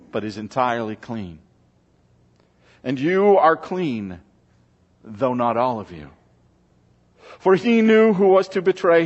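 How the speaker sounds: measured, solemn Gospel reading; scripture reading. Acted. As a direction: read the passage to the congregation. Reads John 13 aloud.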